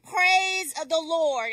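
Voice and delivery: a slow, projected command; rider's call to go. Acted. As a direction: draw out the command to the horse. Buyer calls the go command.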